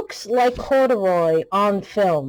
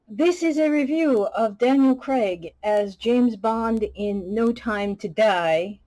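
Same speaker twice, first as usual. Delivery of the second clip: slow title announcement; 3 semitones higher than usual. Acted. Announces the review topic.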